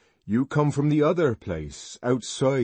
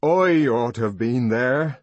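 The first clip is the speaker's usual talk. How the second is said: louder, higher, impassioned outburst; passionate young man; 7 semitones higher, 7 dB louder than usual. A narrator's reading. Young man longing to be the sacrifice, loud impassioned outburst. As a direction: rage that they refused you.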